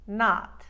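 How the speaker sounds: "not" with wide ah as in spa; loud Long Island "not", fully open o; Queens vowel. Shown as a demonstration. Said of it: "all three variations".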